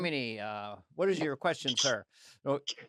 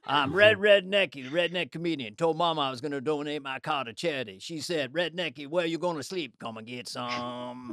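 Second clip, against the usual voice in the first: redneck comedian. Acted. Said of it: "Red Redneckies".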